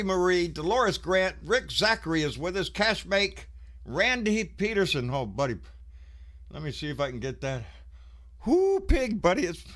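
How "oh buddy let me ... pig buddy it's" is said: panting, out of breath; breathless after rushing in. Real, not acted. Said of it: "I'm trying to catch my breath".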